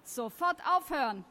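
acted stern intervention; sharp command. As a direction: break up the fight at once. Adult breaks up a fight.

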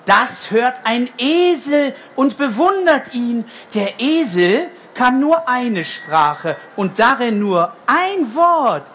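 slow, gentle read-aloud; reading to a toddler. A narrator's reading. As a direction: read slowly to small children. Slow picture book narration.

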